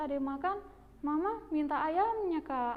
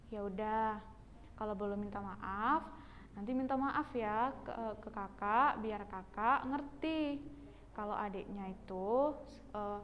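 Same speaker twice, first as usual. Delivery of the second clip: lightly voiced mother, calmly advising; 4 semitones lower, 4 dB quieter than usual. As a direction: lower motherly guidance. Plays Mama advising the child.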